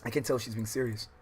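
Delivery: steady read-aloud voice for the novel; calm visual novel reading; story narration. A narrator's reading.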